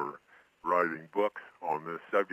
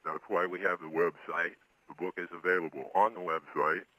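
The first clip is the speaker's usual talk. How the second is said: disguised voice. Real, not acted. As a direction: voice altered to hide identity. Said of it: "he is appearing here on this show with a disguised voice".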